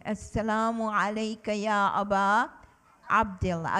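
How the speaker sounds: brisk chanted greeting, rising then falling; quick recitation. Shown as a demonstration. Teacher drilling children in the greeting, brisk chant. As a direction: rattle it off as a call for the class. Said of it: "say it again and again".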